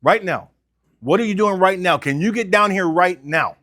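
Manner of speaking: pressing hard for right now; pushy urgency. Shown as a demonstration. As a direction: push the customer to come in immediately. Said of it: "is their emotion as high as it's gonna be".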